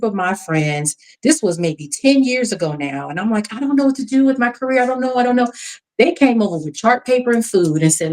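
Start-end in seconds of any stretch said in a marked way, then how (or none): 3.5-5.5 retold helpless fretting. Retelling own career panic to friends.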